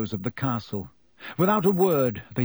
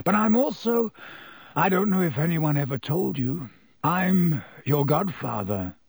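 a hint of Black, halting and careful; lightly voiced Black, hesitant; 3 semitones higher than usual. Black telling Harry he's his godfather, hesitant. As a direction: hesitate between phrases as you reveal it.

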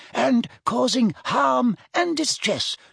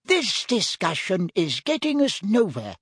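high-pitched firm official; 7 semitones higher than usual. A narrator's reading. Ogden to Gaunt, ending the argument firmly. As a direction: put your foot down in a higher voice. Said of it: "said Ogden firmly".

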